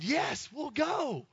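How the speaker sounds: high, slow, put-on parents; lightly voiced happy parents; mock parent voice.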